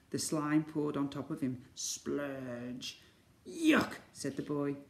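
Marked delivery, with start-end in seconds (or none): 1.7-3.0 soft, oozing sound-effect word; voiced splurge. A narrator's reading. Narrator voices slime pouring on boy. 3.5-3.9 high, loud cry of disgust. A narrator's reading. Boy covered in slime reacts.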